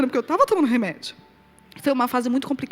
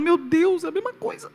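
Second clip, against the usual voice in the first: amazed; 5 semitones higher than usual. Retold or imitated. Mother marveling at grown daughter.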